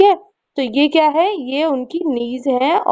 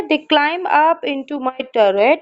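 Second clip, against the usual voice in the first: 1 slow poem reading; much slower than usual. Shown as a demonstration. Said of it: "teacher reads poem aloud".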